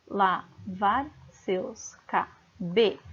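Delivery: very slow, separated syllables of "Lavar seus cabe-"; counting syllables. Shown as a demonstration. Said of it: "vamos contar até o B".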